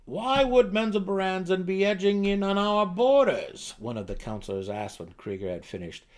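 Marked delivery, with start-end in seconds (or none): 0.0-3.8 higher, louder anxious counselor voice; an uneasy advisor pressing the king; worried gnome counselor. Acted. Counselor asks about drow threat.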